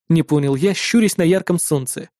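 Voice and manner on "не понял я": usual speaking voice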